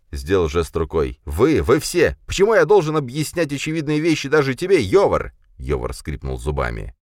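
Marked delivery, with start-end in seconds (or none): 1.2-5.3 high, loud indignation; exasperated outburst. A narrator's reading. Khranka shouts at all of them, exasperated. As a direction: cry out at everyone.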